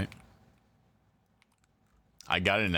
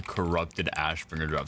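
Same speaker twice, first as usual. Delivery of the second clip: dry throat, voice cracks; cracked voice from thirst; voice cracking. Real, not acted. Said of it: "Sorry, my voice cracked because I need water".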